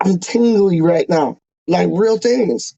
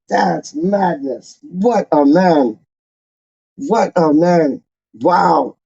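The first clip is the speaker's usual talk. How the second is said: emotional, choked up. Real, not acted. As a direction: voice thick with emotion. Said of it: "You can hear it in my voice".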